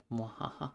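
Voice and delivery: lightly voiced villain cackle; evil laugh. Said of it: "give us your best evil laugh".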